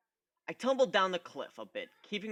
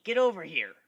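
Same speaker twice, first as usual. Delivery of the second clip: calling out; 4 semitones higher, 9 dB louder than usual. Acted. Gilda calling out.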